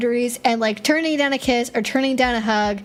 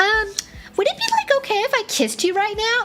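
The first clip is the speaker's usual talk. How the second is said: put-on Valley Girl voice, very high and swooping; 10 semitones higher than usual. Demonstrating how to ask before kissing someone, in a Valley Girl voice. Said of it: "I converted from nerd to like Valley Girl".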